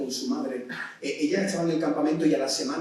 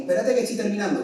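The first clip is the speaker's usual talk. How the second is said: put-on 1 quick teen stall; 6 semitones higher, 4 dB louder, faster than usual. Kid stalling parent.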